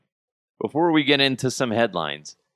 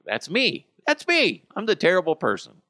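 high, climbing mock outburst; comic high-pitched self-accusation; mock panicked confession; 9 semitones higher than usual. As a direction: pitch leaps up as you own up. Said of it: "And be like".

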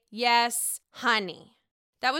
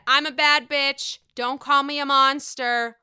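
imitating Giselle; 4 semitones higher, 9 dB louder than usual. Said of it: "came up to her and said".

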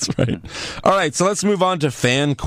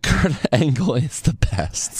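whisper. Real, not acted. Laughing aside after review.

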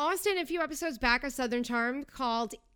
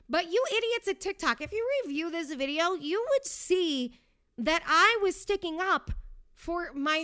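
exasperated scolding; 5 semitones higher, 3 dB louder than usual. Real, not acted. Scolding TikTok moderators.

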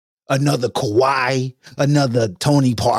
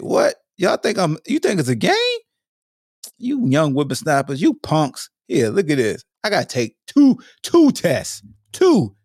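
put-on old prospector; 3 semitones higher than usual. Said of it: "I said".

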